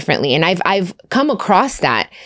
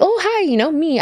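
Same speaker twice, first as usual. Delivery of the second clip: cheery greeting; 9 semitones higher than usual. Retold or imitated. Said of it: "I was like".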